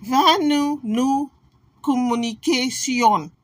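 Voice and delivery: put-on slow, halting made-up French accent; mock French. Translating for French speakers, mock French. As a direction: stretch out badly faked French. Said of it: "you need to hear it in French".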